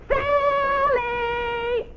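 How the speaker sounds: high, long drawn-out call; child calling a friend upstairs; calling up the stairs. A narrator's reading. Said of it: "call up to her".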